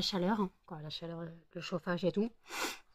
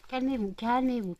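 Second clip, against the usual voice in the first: calming the dogs; 5 semitones higher, 6 dB louder than usual. Real, not acted. Hushing her excited dogs.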